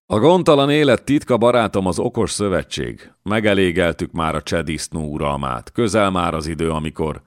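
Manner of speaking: lightly voiced lord, bold and coaxing; a light touch of a swaggering nobleman recruiting; coaxing a strong fighter to join, lightly voiced; scheming young lord. Miklós voiced in reading.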